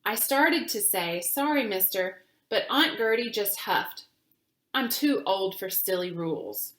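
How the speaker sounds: put-on gentle storytelling voice for children; reading a picture book aloud. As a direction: read it like story time, clear and calm.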